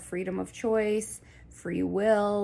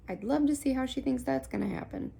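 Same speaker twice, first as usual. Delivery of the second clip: amused guides; 5 semitones higher, faster than usual. Retold or imitated. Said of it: "they get entertained".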